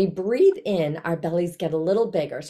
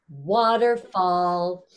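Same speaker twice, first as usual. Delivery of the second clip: slow, stretched loud call; loud waterfall; much slower than usual. Shown as a demonstration. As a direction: call it out slowly and fully. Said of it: "really loud waterfall".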